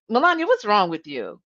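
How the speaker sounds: sharp, accusing tone; harsh accusing question. Retold or imitated. Manager confronting Melania in a one-on-one, sharply accusing. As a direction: snap the question at her like an accusation. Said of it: "did Katie really say it like that".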